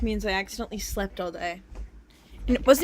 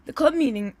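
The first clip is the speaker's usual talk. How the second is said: cracked voice; 4 semitones higher, 5 dB louder than usual. Real, not acted. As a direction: crackly voice after throat clearing. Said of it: "my voice is, like, crack-, cracky".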